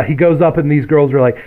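ordinary talk, nothing marked

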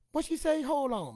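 very high, loud indignant squawk; shrieking demand to hear it; outraged grandma. Retold or imitated. Grandmother furious at the store lady. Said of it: "grandmother on phone".

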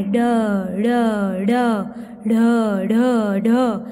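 ड and ढ flapped, with a trace of न; dotted ड़ ढ़ sounds. Shown as a demonstration. Teacher demonstrates ड़ and ढ़, with a touch of न. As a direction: flap the tongue on ड. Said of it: "न का sound आता है".

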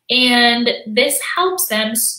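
ordinary talk

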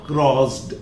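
crossed said as "crozd"; crossed with ड instead of ट; wrong voiced ending. Shown as a demonstration. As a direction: buzz the end of crossed into a d. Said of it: "not crossed".

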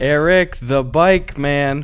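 slow, drawn-out ad tagline; ad announcer. Retold or imitated. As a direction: stretch it like a local commercial. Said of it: "somebody just goes".

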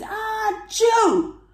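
loud, high storybook sneeze; explosive, high-pitched pretend sneeze; mock sneeze. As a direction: let out a big acted "achoo". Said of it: "Father Christmas sneezed".

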